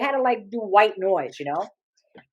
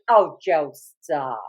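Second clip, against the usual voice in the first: coy woman; 6 semitones lower, much slower than usual. Retold or imitated. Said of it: "And she goes".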